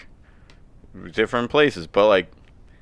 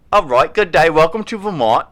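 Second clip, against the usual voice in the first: put-on Southern accent; 6 semitones higher, 5 dB louder than usual. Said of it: "I don't know how they talk in Vermont".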